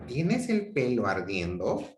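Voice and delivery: rising question tune; genuinely asking, voice rising. Shown as a demonstration. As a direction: ask it, lifting at the end. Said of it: "una actitud interrogativa".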